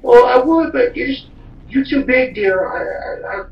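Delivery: high, loud mocking girlfriend voice; girlfriend's excuse. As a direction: imitate her in a squeaky high tone. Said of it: "And she goes".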